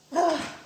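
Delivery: heavy sigh after venting; exasperated sigh. Real, not acted. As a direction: let out a sigh. Sighs after her complaint.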